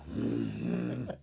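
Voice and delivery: low muffled "mm" noise; imitated queasy groan. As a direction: groan through a closed mouth, imitating a disgusted drinker. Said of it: "So Töne von sich am geben". (angeekeltes Stöhnen nachgemacht)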